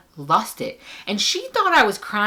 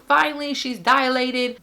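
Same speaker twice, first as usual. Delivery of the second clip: higher relieved staff voice; 8 semitones higher than usual. Retold or imitated. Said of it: "They're like".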